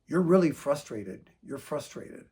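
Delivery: calm echo fading to a near whisper; calm reflecting back. Shown as a demonstration. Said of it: "you just say".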